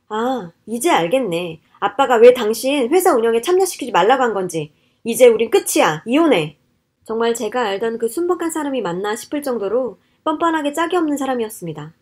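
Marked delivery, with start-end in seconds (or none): 0.1-6.6 angry ultimatum. Acted. Wife tells husband she wants a divorce, angry. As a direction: declare it over, loud and final. Wife declares the marriage over.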